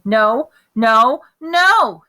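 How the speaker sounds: put-on little boy hollering at the shoe salesman. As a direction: holler no like a toddler in a tantrum. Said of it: "he hollered".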